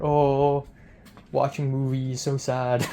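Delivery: imitating a friend poking fun, drawn-out "oh"; lightly mock someone's sad little answer; teasing mock pity. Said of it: "poking fun at me".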